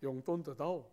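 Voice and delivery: father begging son for money, softly; pitiful old father. Retold or imitated. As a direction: play a mock-pitiful dad begging. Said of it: "뭐 이런 거죠".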